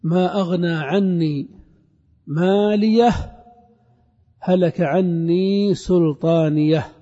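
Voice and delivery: slow, measured chanted recitation; teacher reciting a verse to show the pausal ha; Quran recitation. Acted.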